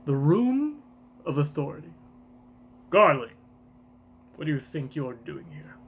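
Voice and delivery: a lightly put-on haughty lord's voice; Garling's accent. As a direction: speak down from the throne. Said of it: "I haven't done this accent in a while".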